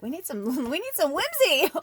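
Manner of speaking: high, laughing plea for whimsy. Retold or imitated. Telling viewers she wanted whimsy, laughing. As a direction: giggle through it, asking for whimsy. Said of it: "And I was like".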